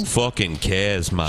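slow mock Northern English drawl; mimicked Northern English accent. Mimics the man's catchphrase in accent.

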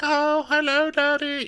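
very high, mock-tearful little greeting; upset. Daughter greets her father, upset, hammed-up. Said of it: "she's upset, obviously".

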